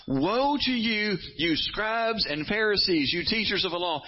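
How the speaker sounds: high, slow prophetic denunciation; Jesus pronouncing woe. Retold or imitated. Preacher voicing Jesus condemning scribes, slow high denunciation. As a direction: call them out, drawing out each word. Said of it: "Seven different times".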